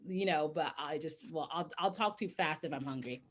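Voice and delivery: chewing while talking; words around a mouthful; mouth full. Real, not acted. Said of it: "I'm gonna be talking and eating".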